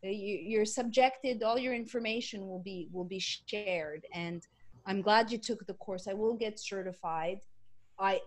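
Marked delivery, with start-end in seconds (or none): 0.0-4.1 joking. Retold or imitated. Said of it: "And then I joke".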